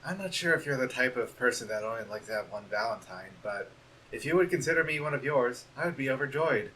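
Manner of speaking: timid hushed valentine; soft shy letter. Acted. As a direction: read it gently like a bashful friend.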